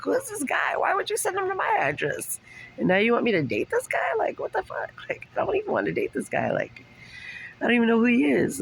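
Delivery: very high mock-outraged squeal; exasperated disbelief. Retelling her outrage at the guy.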